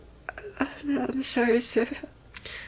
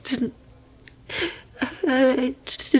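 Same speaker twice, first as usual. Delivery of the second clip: usual speaking voice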